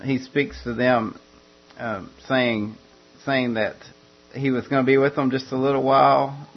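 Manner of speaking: ordinary talk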